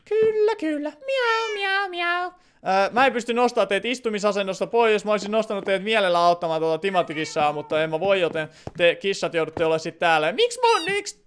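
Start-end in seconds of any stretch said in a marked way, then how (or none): 0.1-2.3 much higher squeaky cat voice. Pretend. Streamer answers for the cats in a much higher kitten voice. 10.3-11.2 much higher squeaky cat voice. Pretend. Streamer answers for the cats in a much higher kitten voice.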